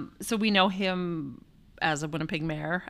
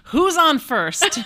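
loud and slow; 9 semitones higher, 9 dB louder, much slower than usual. Acted. Comic reference, punchline.

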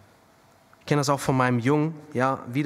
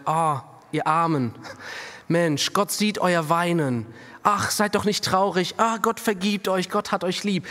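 a touch of pampering pity, slowing on Weinen; half-hearted consolation; mock comforting Samuel; 2 semitones higher than usual. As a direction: lightly play a soothing Samuel coddling the people. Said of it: "da würde Samuel sagen".

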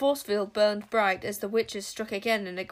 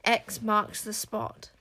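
sinister taunt. Acted. King Witch taunting Zar.

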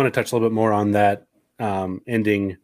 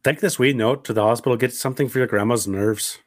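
put-on Irish accent; lightly imitated Irish speech. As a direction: quote it like an Irish parent. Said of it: "you do a pretty good Irish accent".

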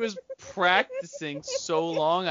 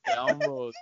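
mock British accent; 2 semitones lower, 3 dB quieter than usual. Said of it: "things that British people apparently say".

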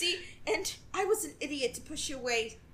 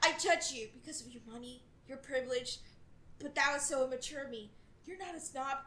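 dramatic love confession. Acted. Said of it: "can I say the Miss Walsh thing".

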